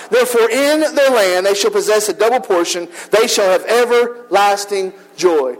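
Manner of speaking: measured, solemn reading of scripture. Acted. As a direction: read the passage with reverence. Reads scripture aloud.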